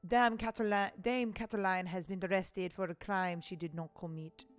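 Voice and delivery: put-on reading a letter in a light French accent; lightly French-accented letter reading. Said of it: "giving, like, a French accent".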